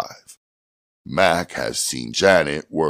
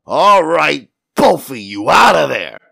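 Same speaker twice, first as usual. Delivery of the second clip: loud, raised command; barked police order; 11 semitones higher, 6 dB louder than usual. A narrator's reading. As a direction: order them out at full voice. Policeman ordering people out of car.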